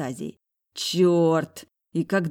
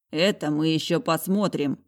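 usual speaking voice

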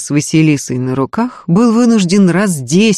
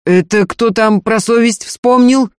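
higher-pitched, incredulous question; astonished; 6 semitones higher, 3 dB louder than usual. A narrator's reading. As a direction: throw the question back in amazement. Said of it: "поразился Ефим".

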